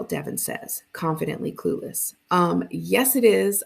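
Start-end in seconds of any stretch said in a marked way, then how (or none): 2.3-3.6 a sharp, louder snap of annoyance; annoyed teen snapping at brother down the phone. Acted. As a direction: bite back at the brother, louder on it is. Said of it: "I snap into the phone".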